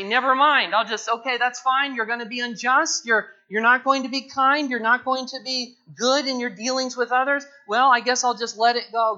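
dismissive indulgence. Pretend. Preacher mocking a lax God to his church, hammed-up. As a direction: toss it aside like it's nothing, mocking. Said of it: "will the Lord just say".

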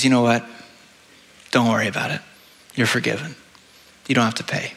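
gentle forgiving king. Acted.

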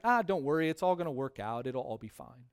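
pat a friend on the back with it; gentle "it'll be fine" tone; casual encouragement. Retold or imitated. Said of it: "in a sense to encourage somebody".

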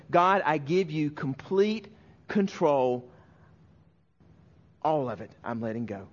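pastor voicing his own prayer of surrender, slow and fading. Prayer of surrender voiced in sermon.

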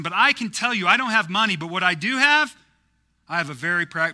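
loud, high, forceful movie-hero threat; impassioned film monologue at full voice; Liam Neeson. Retold or imitated. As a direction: project a hammed-up warning to a kidnapper. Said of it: "Liam Neeson from Taken, but not vindictive".

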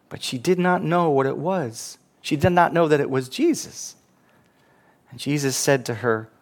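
measured, solemn Bible reading; scripture reading. Acted. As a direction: read the Gospel aloud with reverence. Preacher reads the Gospel passage.

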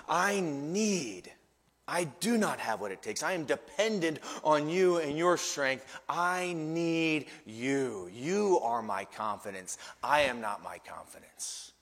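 hushed, slowing confession of need; humble dependence. Shown as a demonstration. Believer leaning on Jesus for strength, humble and subdued. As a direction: confess it humbly, sinking toward a hush. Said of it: "must shift from".

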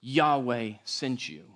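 slow solemn God quote. Retold or imitated. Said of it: "he says".

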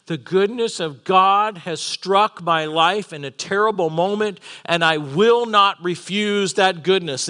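slow, emphatic preaching of a vow; resolute declaration. Retold or imitated. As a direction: declare it firmly, drawing out the key words. Preacher voicing Joseph's firm refusal.

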